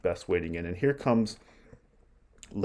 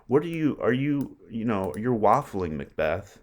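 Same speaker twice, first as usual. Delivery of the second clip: exasperated paraphrase. Retold or imitated. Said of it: "Lady Macbeth is saying here".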